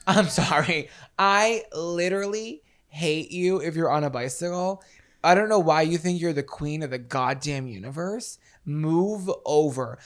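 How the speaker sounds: ranting. Real, not acted. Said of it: "I'm very passionate about this".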